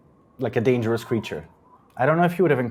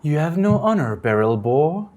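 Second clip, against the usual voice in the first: scolding; 4 semitones higher than usual. Acted. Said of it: "wags its finger at the dwarf and says".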